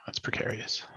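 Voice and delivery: soft unvoiced whisper. Real, not acted. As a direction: breathe it out tensely. Tense moment at table.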